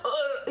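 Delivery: short imitated freak-out noise; freak-out grunt. Shown as a demonstration. Showing how a triggered person freaks out, mock grunt. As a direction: act out a quick triggered outburst. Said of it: "freak out like this".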